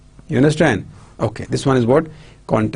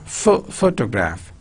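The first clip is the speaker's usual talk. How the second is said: PHO..., PHO-tograph; stress on PHO. Shown as a demonstration. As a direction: break off "pho-" first, then "photograph" stressed at the front. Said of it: "stress on photo".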